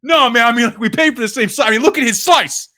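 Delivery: heated, mock-angry complaint at the counter; guy gets stiffed on pizza, mock fury; imitating pissed friend. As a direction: ham up an East Coast guy getting pissed off. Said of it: "like, got pissed".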